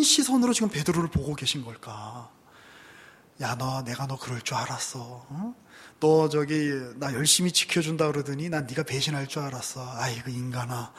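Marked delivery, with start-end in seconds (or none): 3.4-10.9 Jesus scolding Peter, lightly voiced; disappointed scolding. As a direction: sigh it like a let-down parent. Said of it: "이런 눈빛이셨을까요".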